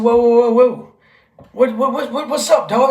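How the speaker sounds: loud high whoa, stopping him; retelling shouting whoa at the scrawny kid; calling out loud. Retold or imitated.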